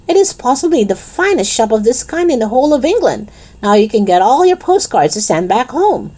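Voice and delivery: lightly voiced proud shopkeeper; boastful shopkeeper Raj. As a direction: talk up the shop to a visitor. Voices Raj praising his shop.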